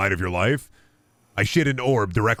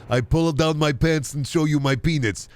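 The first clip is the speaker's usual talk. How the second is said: higher, laughing mock lewd reply; mock pervy RP reply; 4 semitones higher than usual. Streamer mocking a lewd forum reply, laughing. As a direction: mimic a creepy roleplayer with a laugh.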